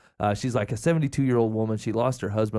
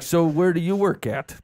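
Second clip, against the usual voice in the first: imitating stilted small talk, slow and higher; forced and awkward; 4 semitones higher than usual. Trying to make conversation with a stranger, forced and awkward. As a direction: drag out a clumsy, raised-pitch icebreaker. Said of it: "it sounds forced and awkward".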